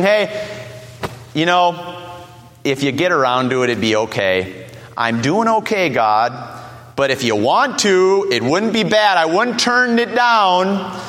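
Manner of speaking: lazy, offhand ask, drifting low; casual offhand prayer. Retold or imitated. Preacher mocking a lukewarm prayer, casual. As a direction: shrug it off like a favor not needed. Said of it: "was not simply coming before and saying".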